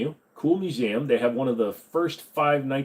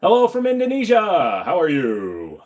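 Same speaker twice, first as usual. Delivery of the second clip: put-on high, loud Indian accent hello; Indian accent greeting; 3 semitones higher, 4 dB louder than usual. Reading a viewer's greeting, Indian accent. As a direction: drop straight into the Indian accent. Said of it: "easiest ones for me to drop into".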